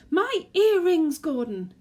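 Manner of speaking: high, loud, slow shrieking; screech. Acted. Wife screeching at Gordon about her earrings, screeching. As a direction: shriek at her husband in panic. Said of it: "she screeched".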